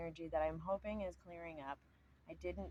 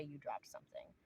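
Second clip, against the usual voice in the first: polite; 7 dB quieter than usual. Retold or imitated. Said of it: "politely say".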